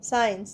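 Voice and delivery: সায়েন্স starting on a plain S, no K; silent C. Shown as a demonstration. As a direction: model সায়েন্স as "sa-yens". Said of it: "সি উচ্চারণ হচ্ছে না".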